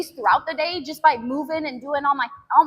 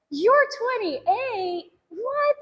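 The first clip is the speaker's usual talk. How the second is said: much higher, very slow, then a high squeak; shocked girl; 10 semitones higher, much slower than usual. Retold or imitated. The girl hears she is twenty-eight and is stunned, rising to a squeak. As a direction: gasp it in disbelief. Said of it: "she goes like".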